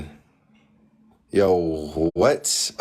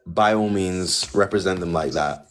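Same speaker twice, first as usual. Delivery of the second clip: sarcastic; 5 dB louder than usual. Real, not acted. Sarcastic dismissal of caller.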